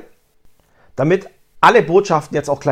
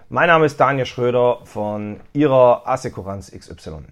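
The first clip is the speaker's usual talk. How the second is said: clear name intro; 4 semitones lower than usual. Shown as a demonstration.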